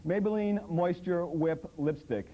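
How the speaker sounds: slow, drawn-out product name like an ad; mock ad announcer. Comic reading ad names to the crowd, drawn out. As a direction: savor the brand name slowly.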